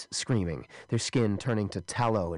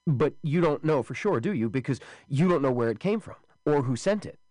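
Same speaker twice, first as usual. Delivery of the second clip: insistent challenge; 6 semitones higher, 3 dB louder than usual. Acted. Wesley pushes back.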